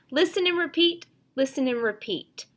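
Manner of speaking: signal the class to listen; firm teacher chant; teacher cue. Shown as a demonstration. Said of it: "So listen and repeat".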